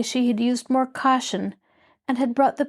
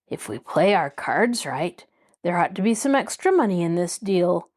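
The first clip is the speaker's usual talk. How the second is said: sly; 2 semitones lower than usual. Acted. Bud slyly hinting to the others about ransom. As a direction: savour the idea of ransom money. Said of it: "Bud observed slyly".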